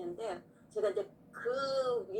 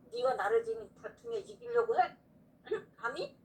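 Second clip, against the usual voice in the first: stern tearful rebuke. Retold or imitated. God rebuking her striving.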